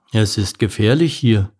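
grave albatross character voice; serious. A narrator's reading. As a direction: give a sober warning. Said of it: "sagte Albert ernst".

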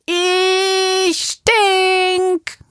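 put-on high toddler voice proudly announcing; small child voice. A narrator's reading. Max tells Papa in the car, high toddler voice. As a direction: sing it out like a little boy. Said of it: "schreit Max".

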